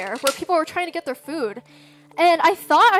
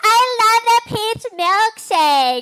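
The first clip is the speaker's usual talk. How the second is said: high, stretched-out screaming; 7 semitones higher, 5 dB louder than usual. Retelling what a girl screamed to her brother: imitating someone screaming. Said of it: "why are you fucking screaming it".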